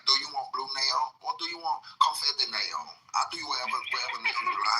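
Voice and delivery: put-on Atlanta accent. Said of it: "They have an Atlanta accent, so they say stuff like".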